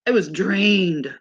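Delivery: slow, weighty stress on "drained"; emphatic DRAINED. Real, not acted. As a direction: lean hard and long on "drained". Repeats the word for emphasis.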